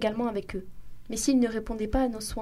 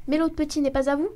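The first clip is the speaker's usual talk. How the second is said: through tears; 5 semitones higher, 5 dB louder than usual. A narrator's reading. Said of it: "à travers ses larmes".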